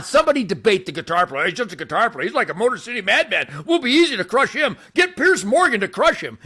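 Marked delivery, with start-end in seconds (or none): 3.6-6.4 high, laughing gloat; laughing taunt. Real, not acted. Taunting would-be debaters, laughing high through the boast.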